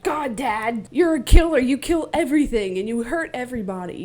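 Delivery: mock-upset kid accusing his dad; upset child. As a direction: play a child's outburst, peaking on the accusation. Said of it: "he gets upset because he's like".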